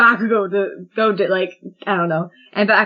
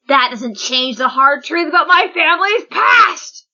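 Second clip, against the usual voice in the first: dramatic outburst; 5 semitones higher than usual. Acted. Acted villain outburst, building.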